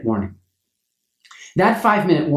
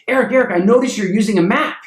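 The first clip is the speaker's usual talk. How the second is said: a hint of an urgent, higher producer's voice; flustered producer; 6 semitones higher than usual. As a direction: lightly play the rushed producer asking a favour. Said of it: "She goes".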